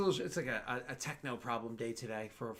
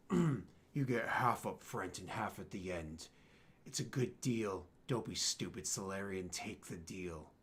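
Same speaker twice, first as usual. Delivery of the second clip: menacing dealer; 5 semitones lower, slower than usual. Acted. GM voices Batarian offering deal.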